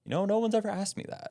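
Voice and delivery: high, surprised interviewee voice; amazed guest. Retold or imitated. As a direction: jump way up like the stunned guest. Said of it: "they're like".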